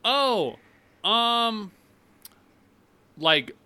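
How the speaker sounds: high, halting, shocked question; stunned clerk. Retold or imitated. Clerk stunned by the rant, high and halting. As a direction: gasp out the question in disbelief. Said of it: "She was like".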